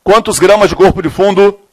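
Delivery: slow, measured dictation with long pauses; classroom dictation. Real, not acted. Teacher dictating a chemistry question to students, slow dictation. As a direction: dictate phrase by phrase, stretching the words.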